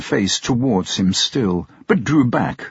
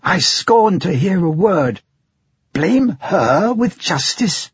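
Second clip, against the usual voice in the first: proud defiance; 8 semitones higher than usual. Acted. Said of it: "cried Bertha proudly".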